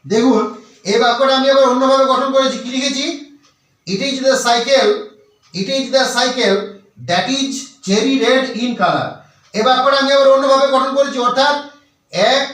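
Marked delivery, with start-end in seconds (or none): 3.9-9.1 very slow, word by word English reading; slow dictation. Shown as a demonstration. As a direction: spell the sentence out slowly for students to copy. Reads example sentence slowly. (ধীরে ধীরে শব্দ ধরে পড়া)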